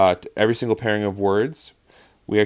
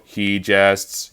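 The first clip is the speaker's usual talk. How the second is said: "He jests" like a robot, both beats equal; "He jests" in evenly weighted robot beats. Shown as a demonstration. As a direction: say "He jests" robotically, no beat favoured. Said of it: "don't say it like a robot".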